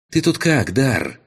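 high, loud call over battle din; shouting over noise. Acted. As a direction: yell it across the battlefield. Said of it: "Перекрикивая стоящий вокруг треск и грохот".

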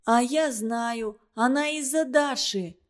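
usual speaking voice

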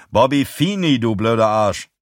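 mild aggressive taunt; angry insult. Acted. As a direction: throw the insult in his face. Attacker insults victim after slap.

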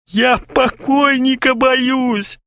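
high, slow sobbing howl; sobbing wail. A narrator's reading. Kharchenko wails at friends, sobbing and high. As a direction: wail it through tears. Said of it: "рыдая, завопил Харченко".

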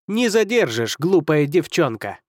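scornful villain, slow on the insult; sneering wizard. Acted. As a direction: sneer down at the girl. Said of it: "сказал колдун".

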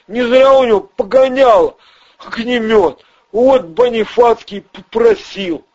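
high, jittery small-time crook; squeaky nervous crook voice; Ryzhy's voice. Acted. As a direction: pitch way up and talk fast like a nervous hustler. Ryzhy pleads and explains.

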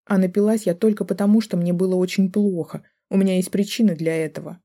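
unload everything, building fury; angry wife's tirade. Acted. Wife lashes out at husband and his daughter.

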